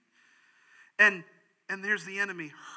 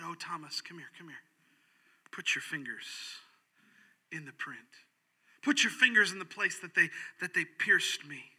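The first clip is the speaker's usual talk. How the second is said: tender Jesus voice. Acted. Voicing Jesus to Thomas.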